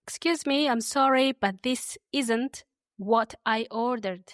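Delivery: slow and clear, for learners to copy; said slowly. Shown as a demonstration. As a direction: say it slowly so they can repeat. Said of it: "I'll say them slowly".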